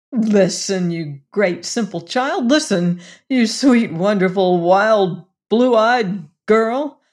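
ardent plea. Acted. Lover's rising ardent plea.

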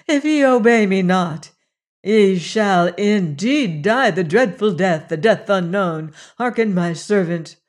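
a lightly voiced goddess warning her priests; stern threat.

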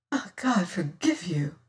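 hushed, breathless whisper; despairing whispered prayer. Acted. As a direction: let it die away to a whisper. Stricken lady after the shooting.

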